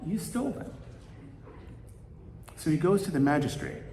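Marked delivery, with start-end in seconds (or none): 0.0-0.7 high, slow, indignant baker voice. Acted. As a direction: lift the voice and draw it out like an offended baker. Baker accuses the poor man.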